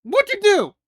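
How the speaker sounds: very high, loud, put-on astonished voice; bewildered question. Rain asking Melia what she did, hammed-up astonishment. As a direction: squeak it out in disbelief.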